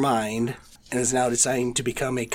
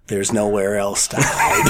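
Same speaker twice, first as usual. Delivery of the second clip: hoarse from a cold; sick voice; 5 semitones lower, 3 dB louder than usual. Real, not acted. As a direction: talk through a sore throat. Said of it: "You sound lovely today".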